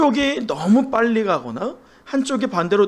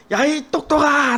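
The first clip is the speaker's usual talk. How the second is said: put-on child calling out; 8 semitones higher than usual. Boy shouting to the mountain, high and bright-voiced. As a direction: call out like a boy on a hilltop. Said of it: "라고 크게 외쳤어요".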